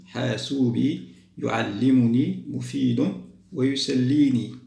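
words drawn out syllable by syllable; teacher listing words to arrange; slow word list. Shown as a demonstration. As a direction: read each word slowly for the class. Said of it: "نعيد قاعدة الكلمات".

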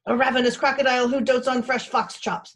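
loud, high creature voice boasting menace; fierce bluff. A narrator's reading. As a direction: pose loudly as a fearsome beast. Bone bluffs to scare the fox.

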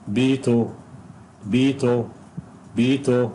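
بيتو said slowly and clearly, long ee; model pronunciation. Shown as a demonstration. Teacher drilling the word for students, careful model pronunciation. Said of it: "بيتو هتبقى برضه هنا".

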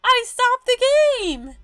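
high, loud exclaiming; excited shout. Real, not acted. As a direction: cry out in real amazement. Game froze, shouting.

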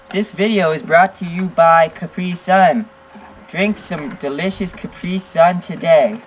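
upbeat mock ad read; sponsor read. Dad reading a sponsor plug to viewers, playful announcer.

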